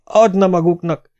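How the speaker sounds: magasan kitörő, elkeseredett kifakadás; felindult kiáltás. A narrator's reading. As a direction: fakadj ki magas hangon, mérsékelt erővel. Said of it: "kiáltotta az asszony, és kibudjantak a könnyei". (elkeseredett felkiáltás)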